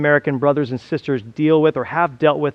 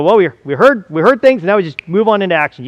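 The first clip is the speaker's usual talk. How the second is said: hammed-up haste, higher and louder; mock hasty eagerness; 3 semitones higher, 5 dB louder than usual. Preacher mimicking people jumping to action, hastily eager. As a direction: rush ahead as if listening were done.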